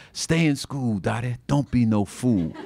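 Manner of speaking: mild southern-accent holler imitating a singer. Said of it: "holler in a southern accent".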